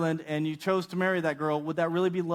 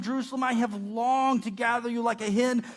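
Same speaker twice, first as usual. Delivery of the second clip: higher-pitched, pleading lament; pleading cry; 6 semitones higher than usual. Retold or imitated. Jesus longing to gather Jerusalem, pleading. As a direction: cry out in appeal, voice lifted. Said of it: "Jesus is crying out, with, pleading".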